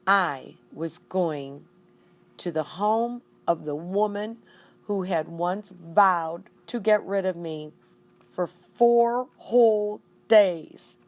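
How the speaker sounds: horrified hamster narration; dramatic dread. A narrator's reading. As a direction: stretch it out with mounting dread.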